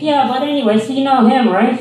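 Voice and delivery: mocking a patronizing old lady at the mall. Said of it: "It's like".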